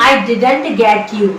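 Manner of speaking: very slow and deliberate; slow teaching demo. Shown as a demonstration. Teacher modelling the English, very slow. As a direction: lay it out slowly for students. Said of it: "इसकी English होगी".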